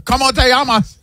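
Japanese-sounding Spanish. Pretend. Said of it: "like you're from Osaka".

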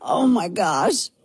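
mocking pop-star vocal fry; imitated creaky, drawn-out girly croak; a pop singer. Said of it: "early aughts pop-star vocal fry".

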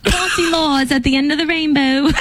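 put-on playful leprechaun-style Cockney accent. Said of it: "In her Cockney accent".

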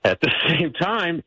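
ordinary talk

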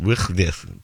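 "Wychnith" in throaty mock Welsh; mock Welsh pronunciation. Shown as a demonstration. Host jokes about Wales street signs, mock Welsh pronunciation. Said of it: "it's pronounced".

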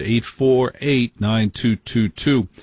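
each digit spaced out slowly; phone number read slowly for callers. Shown as a demonstration. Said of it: "host reads phone number".

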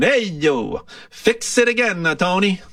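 Italian accent. Shown as a demonstration. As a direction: toss it off like a comic Italian mechanic. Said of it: "I'll say it with an Italian accent".

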